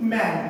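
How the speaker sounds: ম্যান with the open অ্যা vowel; A sounded as অ্যা. Shown as a demonstration. Teacher giving man as an example, ম্যান said with অ্যা. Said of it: "এর মতো উচ্চারণ হচ্ছে".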